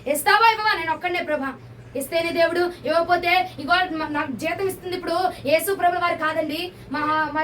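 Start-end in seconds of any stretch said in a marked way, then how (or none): 0.1-1.5 fervent pleading, surges louder on the demands; zealous plea. Retold or imitated. Preacher acting out a believer demanding from God, zealous and pleading. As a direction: pray it with holy indignation, insisting. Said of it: "రోషంగా".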